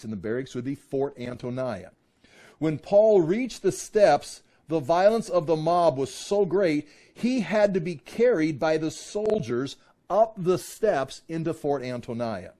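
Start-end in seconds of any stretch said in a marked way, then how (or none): 2.6-12.5 measured, emphatic public reading; emphatic scripture reading. A narrator's reading. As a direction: read scripture out to the room, raised voice.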